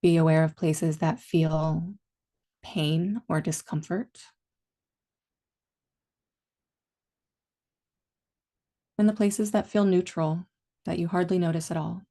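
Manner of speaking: calm meditation guide, long pauses between phrases; guided meditation. Real, not acted. Teacher leading listeners into body and breath awareness, calm guided meditation. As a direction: ease them gently inward, leaving space after each instruction.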